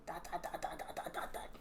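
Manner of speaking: very soft, low patter; hushed trailing dots. Real, not acted. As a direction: tick off the dots almost whispering.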